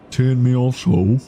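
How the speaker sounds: Tiered Me Asshole in a put-on English accent. Shown as a demonstration. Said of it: "say it in a thick English accent".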